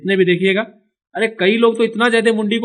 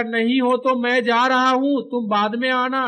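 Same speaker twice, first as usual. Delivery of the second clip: lightly acted, higher-pitched call; animated character calling; 5 semitones higher than usual. Character leaving without a friend, lightly acted calling. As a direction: voice the character a little higher, stretched. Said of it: "अब ये बोलेगा".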